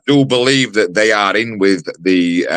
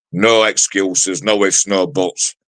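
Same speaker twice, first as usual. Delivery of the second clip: each phrase spaced out, slow and deliberate; slow, pointed warning to the rival; slow firm emphasis; slower than usual. Real, not acted. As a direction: lay down the law one beat at a time. Laying down weight terms to rival.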